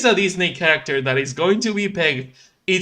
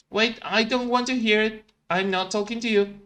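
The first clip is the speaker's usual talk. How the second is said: huffy Felix; 5 semitones higher than usual. Acted. Felix refusing Ralph.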